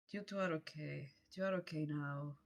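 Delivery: low, quiet comfort; gentle and hushed, settling them down; reassuring. Acted. Character reassures two friends after scare.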